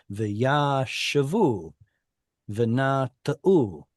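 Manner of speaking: V'yashavu, v'nata'u slowly, sounding the short vowel after the long "a"; audible shva. Shown as a demonstration. Teacher models V'yashavu and v'nata'u slowly with audible shva. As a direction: spell out each syllable of V'yashavu, v'nata'u. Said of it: "audible shva after it".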